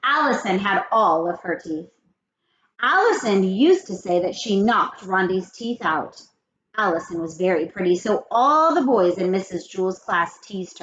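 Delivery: lively, expressive read-aloud with character quotes; read-aloud storytelling. A narrator's reading. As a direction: read the chapter to children, lifting the dialogue. Reads story aloud to children.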